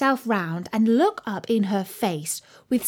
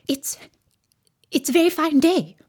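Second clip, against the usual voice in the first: high, hesitant little voice; timid; 7 semitones higher than usual. A narrator's reading. White Rabbit makes timid small talk at Alice's side. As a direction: start haltingly, in a small high voice. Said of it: "said a timid voice".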